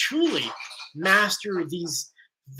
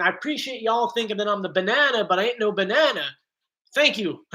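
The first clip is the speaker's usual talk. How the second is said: Larry the Cable Guy. Retold or imitated. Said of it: "Larry the Cable Guy saying".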